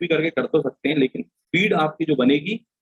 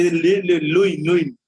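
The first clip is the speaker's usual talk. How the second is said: put-on mother coaxing a child; slower than usual. Mother handing dough mouse to child.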